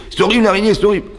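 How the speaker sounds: hammed-up horror at a spider; mock horrified wife.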